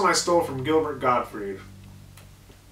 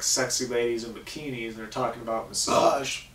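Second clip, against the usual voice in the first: burping; 2 semitones lower than usual. Real, not acted. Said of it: "sorry, burping".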